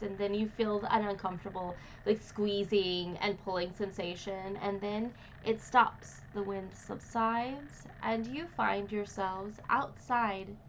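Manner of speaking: slow, measured scene setting; game master narration. A narrator's reading. Game master describes the hot wind to players, slow narration. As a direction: narrate the arrival with drawn-out suspense.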